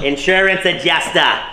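mock Cockney echo; cockney accent. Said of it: "You guys sound like you're doing a Cockney impression".

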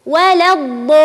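ولا الضالين with the long vowel held six counts; six-count madd. Shown as a demonstration. Teacher models the long stretched ولا الضالين as said in prayer. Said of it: "يجب علي أن أمدها".

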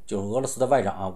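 ordinary delivery

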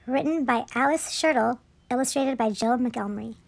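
measured picture-book narration; children's story reading. A narrator's reading. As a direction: read it aloud to little children.

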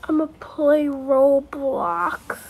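drawn-out, bored sigh of words; sigh, then drag it out as if bored. Pretend. Kid alone with nothing to do, bored. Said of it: "I'm so bored".

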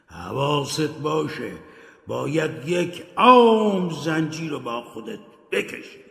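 a hint of a mournful ghost; solemn ghostly warning; lightly voiced ghost. Dead partner Marley warns Scrooge about his chains, solemn.

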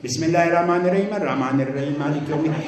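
الرحمن الرحیم with the ha and ain sounds replaced by glottal stops, said fast; wrong Arabic sounds. Shown as a demonstration. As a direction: recite مالک یوم الدین carelessly, dropping ain and ha, mocking.

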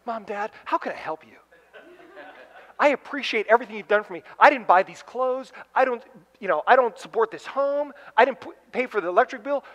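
put-on high, eager, overly earnest kid; sweet grateful kid. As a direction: gush like a too-good child. Imagined grateful kid speaking.

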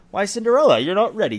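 lightly voiced wicked stepmother. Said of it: "said her stepmother".

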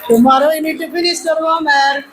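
very slow, sugary mock politeness; smiling teacher. Teacher sending off pupils who skipped homework, mock-sweet. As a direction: stretch every word through a forced smile. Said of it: "இதை நம்ம சிரிச்சுக்கிட்டே தான் சொல்லணும்".

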